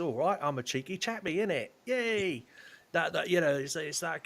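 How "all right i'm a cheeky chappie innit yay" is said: Dick Van Dyke Cockney. Retold or imitated. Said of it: "sort of like a Dick Van Dyke".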